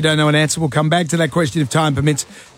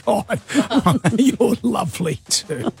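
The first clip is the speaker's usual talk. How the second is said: higher, slow teasing echo with laughter; mock gushing; 4 semitones higher than usual. Host echoing the caller's compliment, mock gushing. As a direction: laughingly mimic a gushing fan.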